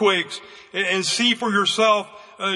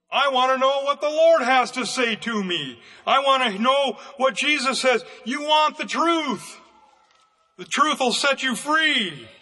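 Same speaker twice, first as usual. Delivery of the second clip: a raised preacher's shout; fervent preaching; 2 semitones higher than usual. Acted. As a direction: press the truth home to them. Preacher rises again in fervour.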